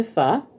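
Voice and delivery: "pho" said short with a slight rise; a clipped "pho" lifting a little; pho another way. Shown as a demonstration. Listing ways people say it, a short "pho". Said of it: "Some people say pho".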